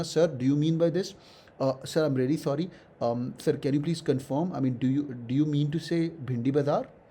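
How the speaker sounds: slow, apologetic, polite request to clarify; slow courteous clarification. Shown as a demonstration. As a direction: ask the interviewer gently, a little sorry. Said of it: "प्यार से, हाँ, बिल्कुल प्यार से".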